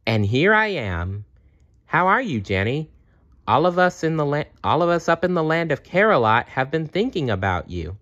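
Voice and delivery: put-on a playful bear cheering up a girl; Funshine Bear. Funshine Bear visits Jenny.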